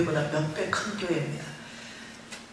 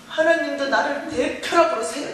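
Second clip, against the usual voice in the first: retold plea to God; 7 semitones higher, 5 dB louder than usual. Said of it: "힘이 빠진 거죠".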